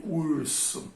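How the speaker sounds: urso drawn out slowly on a retroflex R; countryside retroflex R. Shown as a demonstration. Teacher showing natural delay in urso, retroflex R. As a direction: curl the tongue back and stretch the R of urso. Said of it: "devido a essa pronúncia do R".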